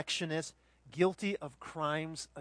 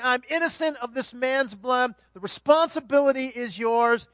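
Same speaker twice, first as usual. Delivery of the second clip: Pilate declaring innocence; 6 semitones higher, 7 dB louder than usual. Acted. Pilate washing his hands.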